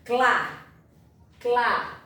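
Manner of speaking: Clá with both C and L clearly heard; sounding out letters. Shown as a demonstration. Teacher demonstrating the cluster sound to pupils. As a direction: say Clá twice, each consonant sounded. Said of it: "Eu escuto o som das duas letras".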